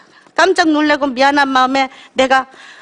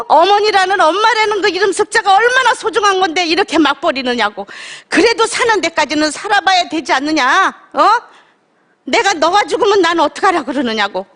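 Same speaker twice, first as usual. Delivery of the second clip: higher, pleading scold in a mother's voice; 4 semitones higher than usual. Retold or imitated. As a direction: mimic mother's tearful rebuke. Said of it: "엄마는 저한테 뭐라 그러셨는지 아세요?". (꾸짖는 어머니 흉내, 높은 목소리로)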